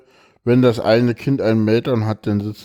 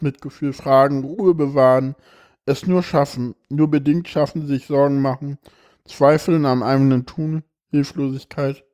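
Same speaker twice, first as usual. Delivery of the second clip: expressive reading aloud of a personal text; emotional reading; 2 semitones higher than usual. Acted. Reads a moving text aloud.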